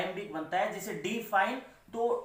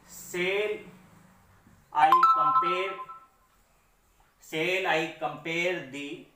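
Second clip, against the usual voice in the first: very slow, word groups parted by long pauses; slow reading aloud; 2 semitones lower, much slower than usual. Shown as a demonstration. Teacher reading a poem line for analysis, slow and segmented. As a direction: read it out piece by piece, drawn out.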